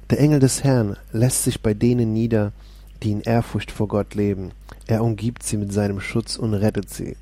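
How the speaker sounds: steady, proclaiming Bible reading; lifted, declaiming psalm voice; solemn scripture reading. Acted. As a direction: read the psalm as if preaching it. Reads Psalm aloud.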